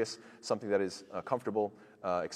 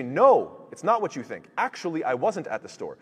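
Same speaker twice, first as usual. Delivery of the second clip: defensive denial; 4 semitones higher, 4 dB louder than usual. Retold or imitated. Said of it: "And they say".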